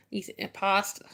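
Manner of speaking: put-on light Jersey Italian accent on impasta; Italian-American impasta. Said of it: "how he would say imposter would be impasta".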